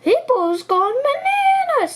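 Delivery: high excited giraffe; alarmed giraffe. A narrator's reading. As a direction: giraffe rushing the news. Giraffe voiced in story.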